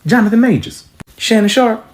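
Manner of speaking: shouted high, loud; high shouted list of names; yelling names. Acted. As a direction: yell the names out like a roll call. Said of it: "start yelling off names".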